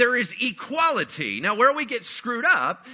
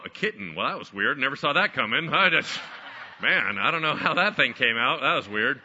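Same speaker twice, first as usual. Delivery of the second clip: lower-pitched, bemused dog voice; puzzled dog; 6 semitones lower than usual. Acted. A dog reacting to having given birth to a kitten, bemused. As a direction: play a dog baffled by its own offspring. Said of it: "A dog doesn't suddenly go".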